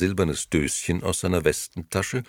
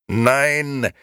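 loud, high, drawn-out shout; anguished loud refusal; desperate cry; 10 semitones higher, 6 dB louder than usual. A narrator's reading. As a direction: cry it out in despair. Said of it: "schrie Gigi verzweifelt".

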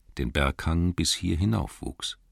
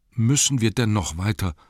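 higher-pitched plaintive hobbit; complaining Bilbo; 4 semitones higher, 3 dB louder than usual. Acted. Hobbit asking wizard whether they must go on, plaintive. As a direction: plead to stop in a raised voice. Weary hobbit asks to stop.

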